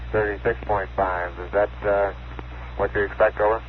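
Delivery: crackly radio transmission; over a radio. Real, not acted. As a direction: voice through a radio link. Lunar module reply over radio link.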